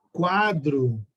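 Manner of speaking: weight on the first syllable of "quadro", falling away; stressed first syllable. Shown as a demonstration. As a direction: say "quadro" with a heavy "qua" and light "dro". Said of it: "a primeira sílaba, quá".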